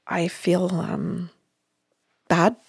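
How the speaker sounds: a client owning up in a tiny whisper; small whisper. Retold or imitated. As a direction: whisper it, barely there and sheepish. Client admits feeling bad.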